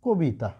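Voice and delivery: "কবিতা" pronounced kobita, first vowel as o; standard pronunciation demo. Shown as a demonstration. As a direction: say "কবিতা" as a model, with o in ko. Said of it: "উচ্চারণ করি কিন্তু এইরকম করে".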